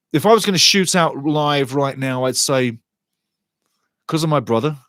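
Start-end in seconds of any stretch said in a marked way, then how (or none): 4.1-4.8 quick whisper under the breath; whispered aside. Real, not acted. Sharing a secret with the listener, a real whispered aside. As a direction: drop to a whisper as a side note. Aside about his brother.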